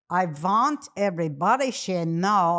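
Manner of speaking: badly faked old-country Jewish accent; hammed-up grandma accent, making a declaration; horrible grandma accent. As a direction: imitate an immigrant grandmother's accent. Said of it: "I'm doing a horrible accent".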